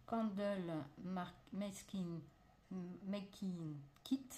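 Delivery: halting English with a French accent; English product name, drawn out with French pronunciation. Real, not acted. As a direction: stumble slowly through English words in a French accent. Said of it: "Excusez pour mon accent".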